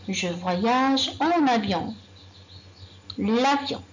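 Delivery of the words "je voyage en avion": slow, statement falling at the end; slow repetition. Shown as a demonstration. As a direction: repeat slowly for the class. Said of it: "Je donne un exemple". (répétition lente, intonation descendante)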